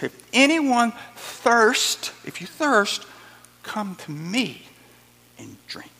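slow, loud call fading to a near whisper; cry out. Acted. Jesus inviting the thirsty crowd, slow and fading. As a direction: proclaim it, then drop away to a hush.

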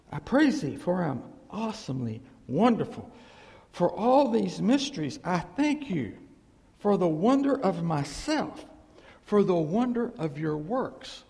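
proud but thankful recital of the verse; reverent reading. Shown as a demonstration. Preacher reading the psalm as thanks to God. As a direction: read it as praise, giving credit to God. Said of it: "But the credit is totally to God".

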